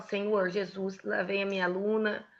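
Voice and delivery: praying. Shown as a demonstration. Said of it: "Eu oro, falo".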